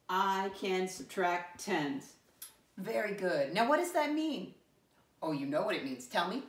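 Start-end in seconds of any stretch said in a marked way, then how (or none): 0.1-2.1 slow, measured group reading; slow read-along. Shown as a demonstration. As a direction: lead the class word by word, slowly. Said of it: "Read it with me again".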